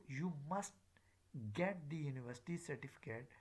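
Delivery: "must" in its strong, stressed form. Shown as a demonstration. Teacher showing the purpose of the meaning, stressed "must". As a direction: lean on the word "must". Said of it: "it is stressed".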